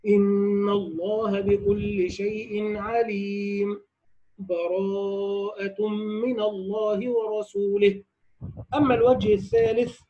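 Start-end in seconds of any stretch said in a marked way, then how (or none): 0.1-8.0 recitation with brief silence. Shown as a demonstration. Teacher demonstrating sakt between Anfal and Tawba, slow recitation. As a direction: pause lightly without breathing before "براءة". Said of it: "مع سكت لطيف بدون أخذ نفس ... هكذا".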